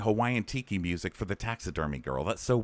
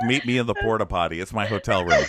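loud, cracking up through the line; laughing mock quote; 5 dB louder than usual. Podcaster joking as the host luring rejects, laughing loudly. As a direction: deliver the punchline through laughter.

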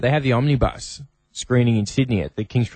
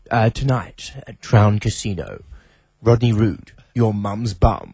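posh announcer voice; 3 semitones lower, slower than usual. Retold or imitated. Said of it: "a very posh voice came on and said".

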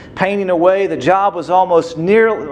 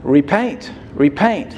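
booming voice from sky; 3 semitones lower, slower than usual. A narrator's reading. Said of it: "a mighty vo-, voice spoke".

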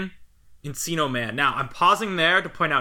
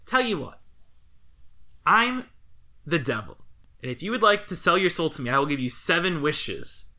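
hint of a tempting devil making a pitch; lightly voiced devil; 2 semitones higher than usual. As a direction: play the devil lightly, drawing out the reveal. Voices the devil's seductive offer.

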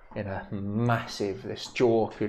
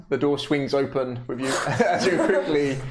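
stifled giggles; 3 semitones higher, 4 dB louder than usual. Real, not acted. Narration breaking into laughter.

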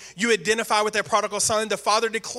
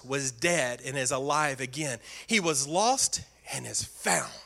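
tender father; 5 semitones lower, 4 dB quieter than usual. Acted. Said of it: "the father said".

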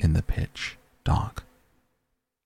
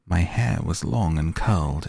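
doubtfully. Acted. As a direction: recall it with hesitant doubt. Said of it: "it said doubtfully".

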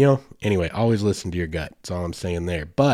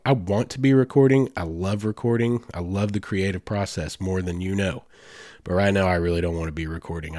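head cold voice. Real, not acted. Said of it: "hear the frog in my voice".

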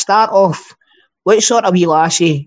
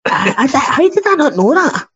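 astonished; 9 semitones higher than usual. Real, not acted. Shocked he missed the fact.

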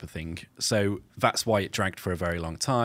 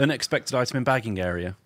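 self checkout prompts; 3 semitones higher, 4 dB louder than usual. Pretend. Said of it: "Let's, let's all do a voice".

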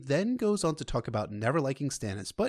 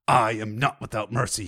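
thundering; 5 dB louder than usual. Acted. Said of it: "he thundered".

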